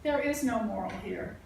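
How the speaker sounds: deliberate, evenly paced verse recital; poetry reading. Acted. Poet reading about life in the forest, measured recital. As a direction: recite it with pauses at the line breaks. Reads own poem aloud.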